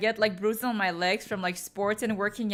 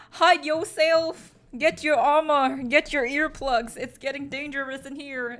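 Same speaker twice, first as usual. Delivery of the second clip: mock panicked warning; 4 semitones higher, 4 dB louder than usual. Imitating chat fleeing her cringy voice, mock panicked warning. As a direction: sound the alarm in pretend dread. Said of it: "Everyone else is like".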